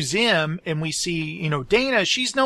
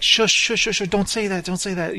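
mock-urgent plea to stop talking; Janosch. Co-host imitating Janosch hushing insults to the painting, mock-urgent hushing. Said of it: "He's kinda like".

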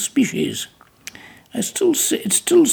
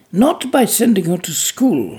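firmly. Acted. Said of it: "he said firmly".

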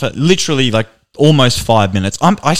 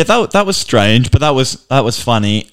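usual speaking voice

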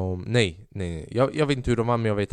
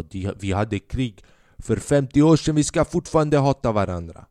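louder mock bigot, spelling out the logic; mocking nationalist; 4 dB louder than usual. Mocking Balkan grudge-holders, a loud sneering voice.

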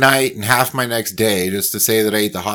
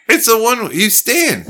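laughing; 9 semitones higher than usual. Real, not acted. Laughing at friend's idea.

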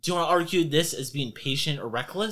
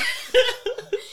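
high giggle. Real, not acted. GM laughing after the bit.

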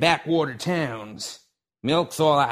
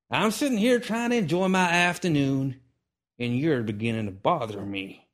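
annoyed; 4 semitones higher, 4 dB louder than usual. Acted. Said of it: "annoyance beginning to squeeze his".

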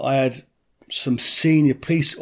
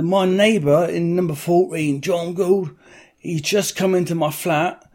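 higher, lisping as if teeth are knocked out; a slightly raised, mushy voice; mock injured caller; 4 semitones higher than usual. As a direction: play a beaten-up victim begging the police. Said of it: "like I've had some teeth knocked out".

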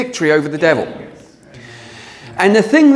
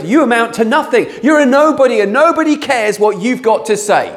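put-on higher, scornful older brother's put-down; belittling older brother; 4 semitones higher than usual. Preacher voices Eliab sneering at young David. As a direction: talk down to the runt of the family.

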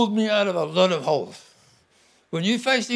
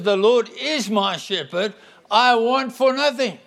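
firm faith declaration; bold declaration; 3 semitones higher, 4 dB louder than usual. Acted. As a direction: proclaim it with confidence. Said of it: "Psalm twenty-three is a declaration".

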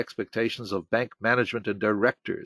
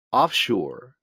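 usual speaking voice

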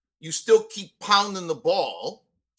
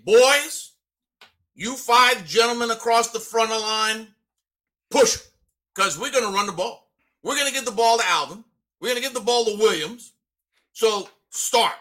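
rally the offensive line before the snap; huddle pep talk; 2 semitones higher, 3 dB louder than usual. Retold or imitated. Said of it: "I go into the huddle and I say".

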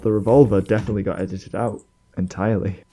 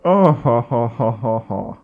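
posh villain laugh; 6 dB louder, slower than usual. Retold or imitated. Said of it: "It's quite a posh laugh".

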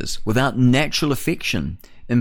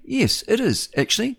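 bright answer; 12 semitones higher than usual. Acted. Answers own question brightly.

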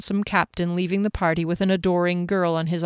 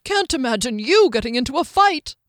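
higher-pitched teasing scoff; derisive; 6 semitones higher, 3 dB louder than usual. A narrator's reading. Skimnoddle teasing her about fighting, derisive. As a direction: scoff as if snorting. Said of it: "Skimnoddle snorted".

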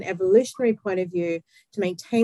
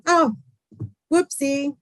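light, higher-pitched mock "whoopsie"; no big deal; 6 semitones higher, slower than usual. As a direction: act out brushing off a small accident. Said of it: "you know, not a big deal".

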